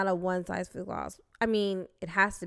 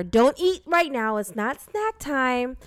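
slow, high, louder princess scolding; cartoon princess; 4 semitones higher, 6 dB louder, slower than usual. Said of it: "she just talks like that".

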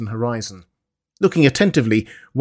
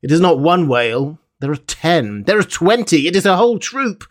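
growing excitement; 6 semitones higher than usual. A narrator's reading. Harpooner sees growing whale troop.

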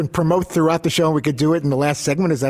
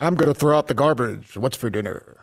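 booming announcer voice for household talk. Acted. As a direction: announce the chores like a stadium PA. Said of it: "That's your P A voice?".

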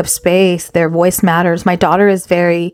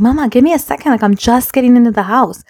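retold harried mom; 5 semitones higher than usual. Busy mother putting daughter off.

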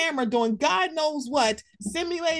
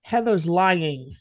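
slow and deliberate, each word placed; slow mock accusation; 4 semitones lower, slower than usual. Quoting a castmate's claim, slow deliberate mock delivery. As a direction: lay out the accusation slowly for effect. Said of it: "Here's my unpopular opinion".

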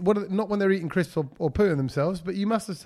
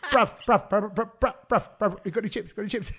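seagull voice. Pretend. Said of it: "they do that like a".

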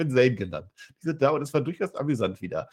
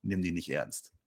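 softer, low muttered aside from Gunther; mock aside; 5 semitones lower, 9 dB quieter, slower than usual. Gunther's hushed aside to Lucky after the others leave, quiet and dismissive. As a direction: say it softly so nobody else hears. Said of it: "Als man keiner mehr hört".

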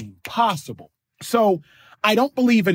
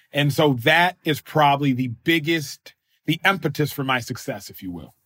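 normal talking voice

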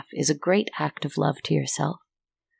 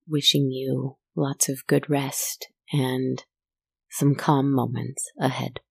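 tucking in at bedtime; 4 dB quieter, slower than usual. Real, not acted. Signing off, wishing sweet dreams.

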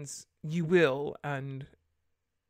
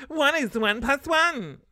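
slow, higher, louder mock disbelief; mock incredulity; 9 semitones higher, 9 dB louder, slower than usual. Real, not acted. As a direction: drag it out, amazed how easy. Mocking easy question.

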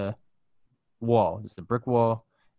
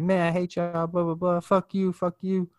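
higher-pitched imitation of a ranting customer; mock angry cursing; 7 semitones higher than usual. Mad lady cursing at the staff, mock angry. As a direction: retell her rant, pitched up. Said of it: "starts getting really mad, starts cursing at them".

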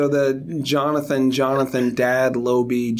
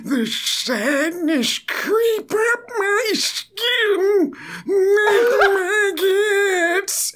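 very high, very slow mock crying; hammed-up sobbing lament; melodramatic wail; much slower than usual. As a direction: moan it like a tragic poet. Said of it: "and I'm like".

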